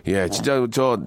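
ordinary talk, nothing marked

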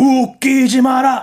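drawn-out, high, loud exclamation; mock defiant shout. Guest quoting a banned song to the host, mock defiant shout. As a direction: belt out the line in mock defiance. Quotes a song's defiant line.

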